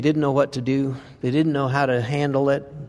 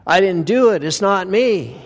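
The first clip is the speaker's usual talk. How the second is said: mock denial; 4 semitones higher, 4 dB louder than usual. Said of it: "as if we can deny our sin and say".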